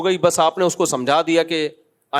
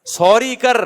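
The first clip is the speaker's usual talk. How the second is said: mock army chief; 4 semitones higher, slower than usual. Imagined army chief demanding Modi say sorry, mocking taunt. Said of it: "army chief کہے".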